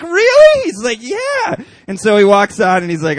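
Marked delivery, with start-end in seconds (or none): 0.0-0.6 very high, loud "Really?"; thrilled disbelief from a fan; amazed squeal. Retold or imitated. 1.0-1.6 mock casual yes. Pastor confirming.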